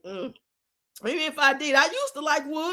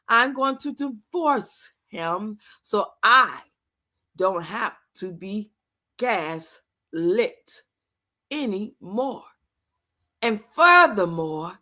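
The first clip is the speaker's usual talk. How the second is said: slow, drawn-out mock declaration, words stretched; mocking impression of Peach; 5 semitones lower, slower than usual. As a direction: parody her dramatic vow to leave him, dragging every phrase. Mocking Peach's divorce rant.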